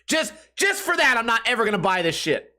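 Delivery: normal talking voice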